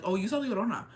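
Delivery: offhand retold remark; casual. Locals telling him who he saw, imitated casual remark. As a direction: toss it off casually, imitating them. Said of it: "they said it so casually".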